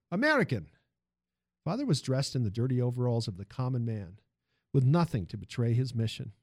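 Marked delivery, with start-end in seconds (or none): 0.1-0.7 higher-pitched call; moderately raised acted shout. A narrator's reading. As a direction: call out roughly to a stranger. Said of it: "somebody shouted at Father".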